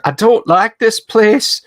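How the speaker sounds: small, high timid little voice; tiny, shy high-pitched character voice; sweet, timid voice. Acted. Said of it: "in a sweet, timid voice".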